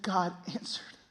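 hushed, trembling and awed. Retold or imitated. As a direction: imitate a moved friend, fading to a whisper. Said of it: "his voice trembling".

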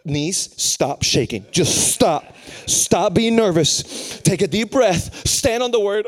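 slow, punched commands to oneself; stern self-talk. Retold or imitated. Preacher to his own shaking knees, stern self-talk. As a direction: order yourself to calm down, loud and deliberate. Orders himself to stop being nervous.

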